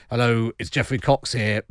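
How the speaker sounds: lightly voiced answerphone greeting; a rough, half-hearted impression of a politician; Geoffrey Cox impression. Host imitates lawyer's answerphone message, lightly put-on voice. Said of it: "that's a terrible impression of Geoffrey Cox".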